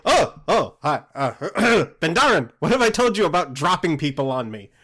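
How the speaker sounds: mock-exasperated telling-off; startled scolding. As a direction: caught off guard, then tell off a companion. Player voices startled Smirt scolding spider.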